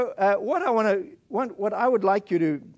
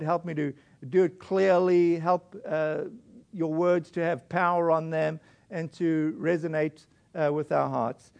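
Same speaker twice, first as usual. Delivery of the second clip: hushed, lower closing prayer, unhurried; 3 semitones lower than usual. Real, not acted. Pastor closes in prayer.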